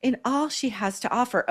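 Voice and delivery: mocking a pretentious baby voice; lightly babyish imitation, mocking the pretension; SJP. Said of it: "How pretentious".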